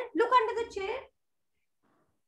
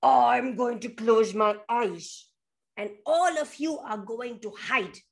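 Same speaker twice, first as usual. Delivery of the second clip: bear voice; 3 semitones lower than usual. Acted. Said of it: "The bear says".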